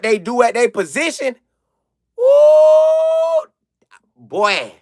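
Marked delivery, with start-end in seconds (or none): 2.2-3.5 high loud amazed ooh; amazed shout. Real, not acted. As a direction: whoop in amazement. Marvelling at fast athletes.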